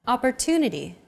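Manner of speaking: Opportunity with a longer "tu" syllable; stress on TU. Shown as a demonstration. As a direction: lean on the "tu" in Opportunity. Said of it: "it's pronounced longer than all other syllables".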